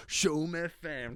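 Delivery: Showm F M drawled slow and soft like a station tag; hushed radio voice naming Showm F M; mock radio jingle. Shown as a demonstration. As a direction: say Showm F M slowly like a radio ident. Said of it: "like, Showm F M".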